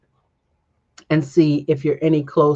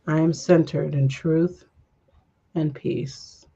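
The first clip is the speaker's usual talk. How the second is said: calm affirmation; slower than usual. Shown as a demonstration. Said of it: "affirmation during breath".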